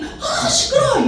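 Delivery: slow, very high exasperated complaint; annoyed scolding. Acted. People fed up with the shouting beggar, high drawn-out scolding. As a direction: drag out the complaint, pitched right up. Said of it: "사람들이".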